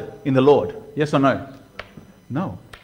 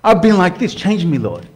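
heartfelt prayer. Pretend. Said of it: "That means something because your heart's speaking".

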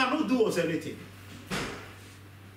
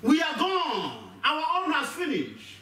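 frightened plea; 9 semitones higher, much slower than usual. Acted. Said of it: "He shouted".

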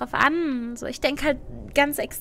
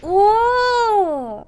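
surprised oh; 7 semitones higher, 8 dB louder than usual. Real, not acted. Surprised reaction.

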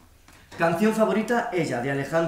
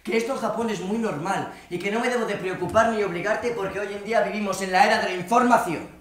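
higher-pitched impression of his mother; chattering mother; 4 semitones higher than usual. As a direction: imitate mum rambling on with her opinions. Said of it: "sigue diciendo mi madre".

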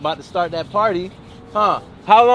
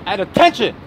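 sharp order, rising then falling; barked military command; drill sergeant command. Acted. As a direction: call them to attention like a sergeant. Dad as drill sergeant giving orders.

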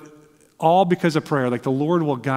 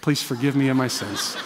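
softer, half-laughing quick prayer; hushed prayer; 2 semitones lower, 6 dB quieter than usual. Retold or imitated. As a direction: mutter a nervous prayer, chuckling at it. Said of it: "There was a moment of".

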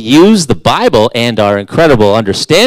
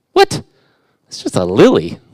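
mock surprise. Preacher mocking the listeners' disbelief about lilies, incredulous. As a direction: fake disbelief, shooting way up.

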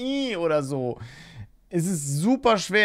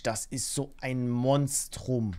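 awed; 6 semitones lower, 5 dB quieter, slower than usual. Real, not acted. Awed at the big steak.

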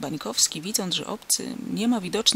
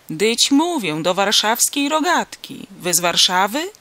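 loud, emphatic farmer, pitched up; exasperated, raised-voice questioning; impatient repeating; 3 semitones higher, 7 dB louder than usual. A narrator's reading. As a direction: spell it out for someone slow. Farmer repeats himself to dazed stranger.

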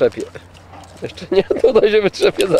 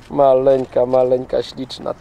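lower, tender cooing to the dog; sweet talk to dog; 4 semitones lower than usual. Real, not acted. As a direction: coo over the little dog. (czułe gruchanie do psa)

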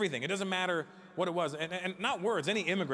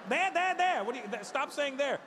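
exasperated shouting; 8 semitones higher than usual. Retold or imitated. Exasperated pointing argument.

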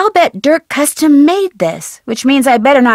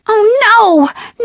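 dismayed surprise; 9 semitones higher than usual. Acted. Realizes she's trapped.

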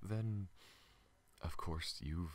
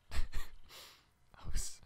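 laughing it off, louder; a flustered laugh over the words; embarrassed laugh; 10 dB louder than usual. Acted. Alien laughing off an apology to the human, embarrassed laugh. Embarrassed after saying sorry again.

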